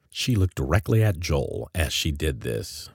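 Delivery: usual speaking voice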